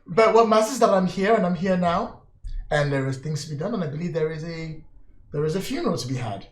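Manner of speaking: smug scheming lord. Acted. GM plays Lord Nomura.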